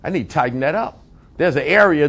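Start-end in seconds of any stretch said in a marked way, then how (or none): 0.0-1.0 imitated congregant musing. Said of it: "Some of you being challenged tonight".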